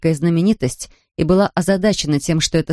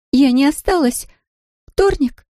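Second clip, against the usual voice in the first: put-on high, tearful girl with a strong Polish accent; a lost Polish girl in broken Russian, strong Polish accent; 9 semitones higher than usual. A narrator's reading. Tearful Polish girl asks the shopkeeper about buses, strong Polish accent. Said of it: "с сильным польским акцентом".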